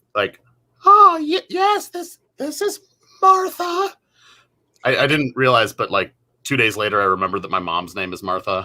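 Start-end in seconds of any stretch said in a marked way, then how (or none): 0.8-3.9 very high, slow put-on woman's voice. Retelling a prank call answered by pretending to be a woman: imitating own attempt at a woman's voice. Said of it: "I just tried my best to sound like a woman".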